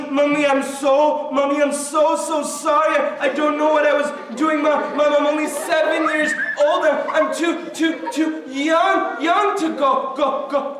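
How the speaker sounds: stammering, sobbing mock plea to mom; hammed-up tearful begging, stuttering; mock crying plea. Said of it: "I started crying my eyes".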